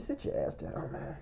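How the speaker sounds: very quiet, low retold command; hushed order. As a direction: imitate a friend too done to raise his voice. Repeats friend's hushed order.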